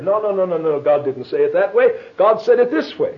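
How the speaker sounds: mock rebuttal, a touch heated; lightly acted quibbler pressing the point; arguing. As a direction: contradict the other debater insistently. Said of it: "We'd sit here arguing about precisely what was said".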